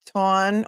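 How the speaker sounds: Tawn with an aw vowel and no r; South Shore pronunciation. Shown as a demonstration. Reading a viewer's accent lesson to the chat, Tawn in South Shore pronunciation. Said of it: "South Shore pronounces".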